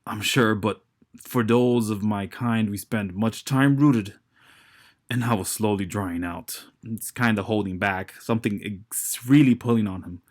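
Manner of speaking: grunting giant. Acted. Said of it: "grunting the entire time".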